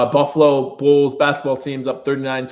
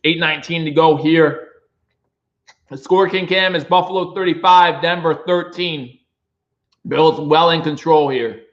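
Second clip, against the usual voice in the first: play-by-play call; 3 semitones higher than usual. Acted. Fan streamer calls the game.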